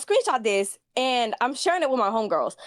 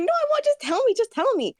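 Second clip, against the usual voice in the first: high, pleading squeak; eager pleading; 13 semitones higher than usual. Retold or imitated. Retelling begging her friend, in a high squeak. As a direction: beg her to just say it.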